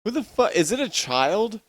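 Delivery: high, puzzled outburst; startled by the meow outside. Real, not acted. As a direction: jump at a noise outside.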